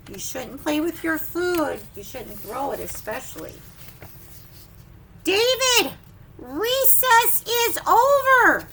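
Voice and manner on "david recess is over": loud, higher, slow call; teacher calling David in from recess. Acted. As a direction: call him in from the playground. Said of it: "Do you see?".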